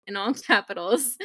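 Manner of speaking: fixing the word through a laugh; giggling over the correction. Real, not acted. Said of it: "I'm slurring my words".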